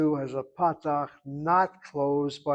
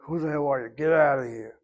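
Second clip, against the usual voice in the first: mildly gruff dismissal, louder at the end; mock angry rebuff; 3 dB louder than usual. Householder turns away someone knocking, mock angry. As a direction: send a stranger packing, half in jest. Acted rude answer to a knocker.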